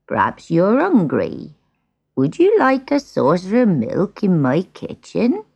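put-on slow, kindly old man; lightly voiced old woodcutter. Old woodcutter offers the cat milk, slow and kindly. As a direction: offer it slowly, with a touch of kindness.

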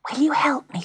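put-on high child's voice asking for help; timid pleading girl. A narrator's reading. Pat asking the grand piano for help, timid plea.

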